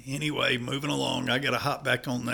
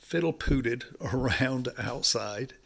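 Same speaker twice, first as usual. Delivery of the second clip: slow, laughing through the word; laughing correction. Shown as a demonstration. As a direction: chuckle on pooted, said slowly. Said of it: "Sorry for the language".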